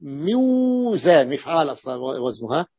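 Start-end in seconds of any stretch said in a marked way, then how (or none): 0.0-1.3 موزان stretched out slowly, each sound clear; slow clear pronunciation. Shown as a demonstration. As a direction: spell out موزان slowly for students. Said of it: "فميزان".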